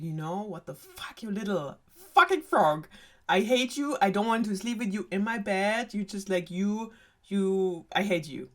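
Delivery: mild mock rant, rising in the middle; retold anger. Princess telling off the frog in her room, mock angry. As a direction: play at being fed up and furious. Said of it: "she gets so angry at him".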